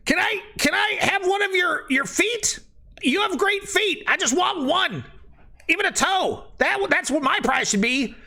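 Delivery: a squeaky little creature begging for a toe; creepy redcap. Acted. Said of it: "the other one's like".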